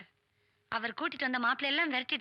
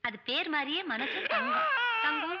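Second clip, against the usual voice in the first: tearful; 3 semitones higher than usual. Acted. Tearful reunion with old servant.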